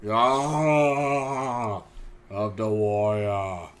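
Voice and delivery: slow, drawn-out wrestler battle cry; Ultimate Warrior. Retold or imitated. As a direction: stretch it out like a wrestling promo. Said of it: "my Ultimate Warrior impression".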